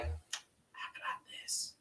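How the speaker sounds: hushed little creature voice; Grogu voice. Pretend. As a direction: squeak it like a tiny baby alien. Voicing Grogu, tiny creature.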